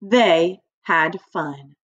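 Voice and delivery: They had fun said slowly together with the class; slow unison read aloud; slow choral reading. Shown as a demonstration. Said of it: "Everybody say that with me".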